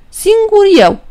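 "Singur eu" said high, falling at the end; proud self-naming. Acted. Păcală tells the devil his name, sly and proud. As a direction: announce the made-up name with sly pride.

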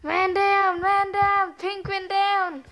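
loud high battle call; man down shout. Acted. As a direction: call it out like a soldier. Playful war game, calling out.

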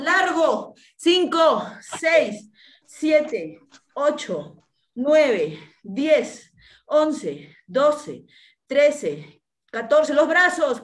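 loud barked counting; barking gym coach. Real, not acted. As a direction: bark the count like a trainer. Coach pushing the class on.

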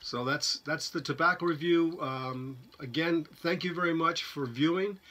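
speaking with pipe clenched; talking around pipe stem. Real, not acted. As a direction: pipe held at lips. Seen 4: Hand holds pipe, stem at mouth corner throughout speech.

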